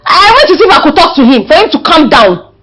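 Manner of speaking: indignant pleading. Acted. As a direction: plead hotly for the tenant. Daughter pleads for young tenant.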